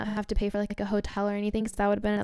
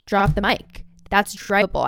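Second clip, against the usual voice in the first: louder thrilled blurt; proud announcement; pumped about the drive; excited; 4 dB louder than usual. Retold or imitated. Thrilled realization.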